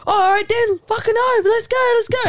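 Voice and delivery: high-pitched imitation of someone squaring up; retold serious challenge. Girl outside the club turning serious, imitated challenge. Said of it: "she just got serious".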